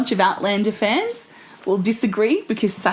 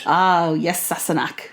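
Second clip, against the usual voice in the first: Scottish accent; 4 semitones lower, slower than usual. Shown as a demonstration. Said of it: "in a Scottish accent".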